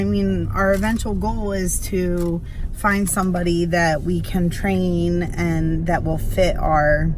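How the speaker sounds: talking over a bumpy ride; on a bumpy road. Real, not acted. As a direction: voice jolted by bumps. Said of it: "Oh, sorry, it's so bumpy".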